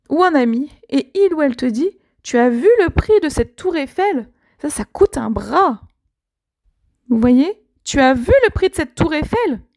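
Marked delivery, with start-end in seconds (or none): 2.2-5.8 acted disbelief at a price, pitched up then dropping; a touch of shock, as if telling a friend; mildly incredulous. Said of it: "Avec un ton un peu, Mais quoi?". 7.8-9.6 higher-pitched, acted disbelief at a price; astonished question, lightly acted; incredulous. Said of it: "Avec un ton un peu, Mais quoi?".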